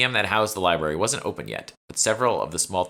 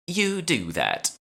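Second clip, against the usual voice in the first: much higher, slow, near-shouted command; almost shouting; 12 semitones higher, much slower than usual. Acted. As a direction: drag it out like a haughty boss, nearly shouting. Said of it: "almost shouting".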